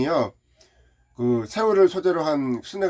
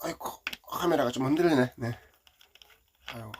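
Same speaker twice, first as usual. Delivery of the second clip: whispering; 3 semitones lower, 5 dB quieter than usual. Real, not acted. Aside while filming.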